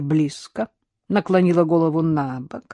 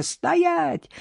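much higher sharp command; barked command; 12 semitones higher than usual. A narrator's reading. Innokenty barks an order at the charging dog. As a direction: bark it like a dog trainer. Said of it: "рявкнул Иннокентий".

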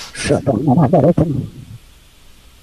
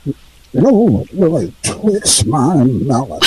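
grandpa voice. Pretend. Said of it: "It's Grandpa".

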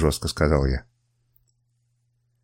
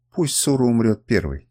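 ordinary delivery

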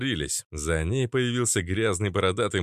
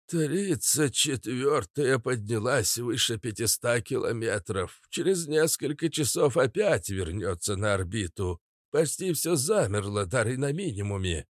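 weary Prince; 3 semitones higher than usual. Acted. (устало, с лёгкой горечью)

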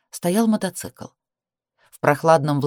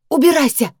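loud, much higher yell; shout; 11 semitones higher, 5 dB louder than usual. A narrator's reading. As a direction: throw him out with a scream. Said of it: "закричала".

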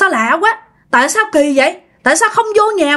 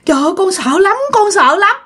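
high, scared pleading; frightened; 7 semitones higher than usual. Acted. Scared girl telling her family what she saw, frightened plea.

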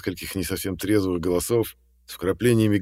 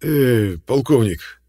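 a guarded, raised hail; wary old rancher calling out; 5 semitones higher, 7 dB louder, much slower than usual. A narrator's reading. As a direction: call out warily to the colonel. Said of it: "настороженно начал Арчибальд Дуглас".

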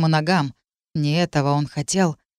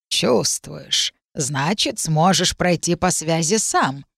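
thin reedy voice; slower than usual. Acted. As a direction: muse like an old witch. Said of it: "спросила и кивнула себе".

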